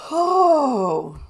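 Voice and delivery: high, falling, drawn-out groan; long wailing sigh of dismay; distressed groan. Real, not acted. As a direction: let out a long exasperated moan. Distressed reaction to the story.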